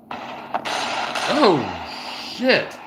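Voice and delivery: high breathy gasp into a curse; startled oh shit. Real, not acted. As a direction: caught off guard, voice jumps up. Missile strike seen on video.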